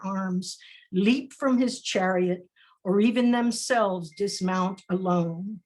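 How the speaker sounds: measured spoken-word reading; poem recital. Acted. Poet reading her poem about a woman on the corner, spoken-word delivery. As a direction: read it like a poem, line by line.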